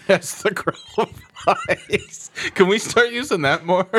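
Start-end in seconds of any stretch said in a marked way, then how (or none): 0.1-2.3 drawn out through laughter; laughing, slow repeat. Retold or imitated. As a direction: savor it slowly while laughing.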